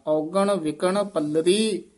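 ਵਿਕਣ loose, then ਪੱਲਰੀ with a firm double ਲ; tight ਪੱਲਰੀ. Shown as a demonstration. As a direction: press the ਲ in ਪੱਲਰੀ after an easy ਵਿਕਣ. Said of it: "ਪੱਲਰੀ ਕਸ ਕੇ ਬੋਲਣਾ ਹੈ".

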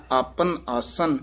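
ਆਪਨ ਆਸਨ slow, as its own phrase; separate phrase. Shown as a demonstration. Teacher modelling the verse, ਆਪਨ ਆਸਨ slowly. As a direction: draw out ਆਪਨ ਆਸਨ after the rest. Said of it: "ਇੱਥੇ ਵਿਸਰਾਮ ਲਾਉਣਾ ਹੈ".

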